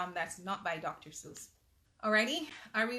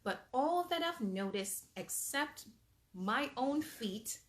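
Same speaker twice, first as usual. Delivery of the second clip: lively storybook reading aloud; animated read-aloud for little kids; reading to children. Acted. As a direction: read it like bedtime story time. Reads picture book aloud.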